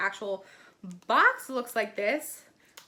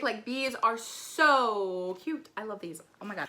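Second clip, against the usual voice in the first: ordinary talk, nothing marked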